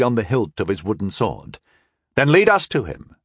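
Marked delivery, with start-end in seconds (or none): 2.2-3.1 narrow-eyed. A narrator's reading. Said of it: "the boy said, his eyes narrow".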